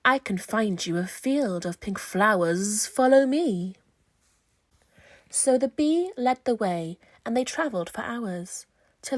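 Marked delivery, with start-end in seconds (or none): 0.0-3.8 buzzing bee. Acted. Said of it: "buzzed a big stripy bee".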